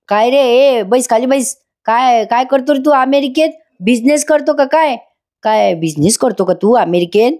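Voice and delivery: changed tone. Retold or imitated. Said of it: "आता त्याचा tone बदलतो बरं का".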